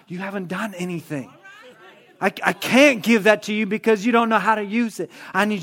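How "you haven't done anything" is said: quiet firm reply. Acted. God's reply voiced.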